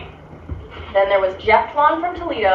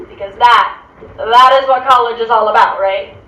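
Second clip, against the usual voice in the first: loud, emphatic sarcastic declaration; overstated certainty, seeking agreement; mock conviction; 6 dB louder than usual. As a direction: punch it out like a proud slogan. Sarcastic summing-up, then "Sort of.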